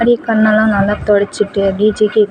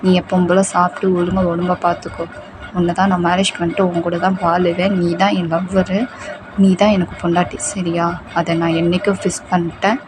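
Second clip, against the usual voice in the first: tender reassurance; 3 dB quieter than usual. Acted. Boyfriend vows love to comfort her.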